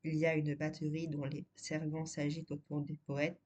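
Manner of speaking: even, measured poem reading; poem recitation. Acted. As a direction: read each line of the litany evenly, pausing between. Reads the poem aloud. (lecture de poème posée et régulière)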